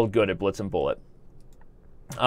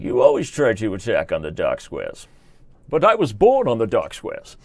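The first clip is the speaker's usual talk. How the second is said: theatrical villain with swooping pitch; Bane; 3 semitones lower, 4 dB louder than usual. Acted. Villain answering Batman about dark squares, theatrical boast. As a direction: boast like a movie villain, words swelling. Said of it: "And Bane's like".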